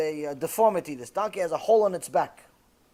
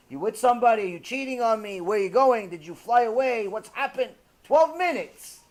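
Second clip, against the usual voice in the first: raised, rapid-fire mock interrogation; suspicious nagging; 3 semitones higher, 4 dB louder than usual. Wife questions husband out of touch briefly, accusing. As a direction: pepper him with accusing questions.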